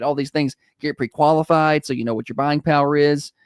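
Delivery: warm radio ad read; warm announcer. Acted. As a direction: sell it like a friendly DJ. Host reads live ad.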